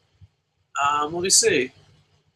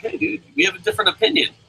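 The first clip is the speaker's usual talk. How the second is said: fast casual take; 6 semitones higher, faster than usual. Retold or imitated. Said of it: "but just be like".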